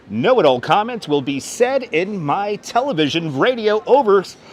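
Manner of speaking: put-on broadcaster read with swinging pitch; radio voice. Streamer warning know-it-all commenters, in a radio voice. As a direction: announce it like a radio host. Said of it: "used in my radio voice".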